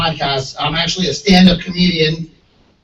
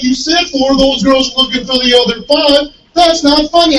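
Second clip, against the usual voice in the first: country bumpkin; 7 semitones higher than usual. Retold or imitated. Bumpkin fan confronting the comedian after the show, in a high hick voice. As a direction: play a puzzled country bumpkin who missed the joke. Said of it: "He's like".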